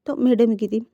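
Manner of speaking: ordinary delivery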